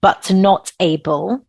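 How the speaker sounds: slow, deliberate reading of a quote; reading aloud slowly. Shown as a demonstration. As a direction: read it slowly so it sinks in. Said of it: "I'm gonna read it slowly 'cause it takes a minute to sink in".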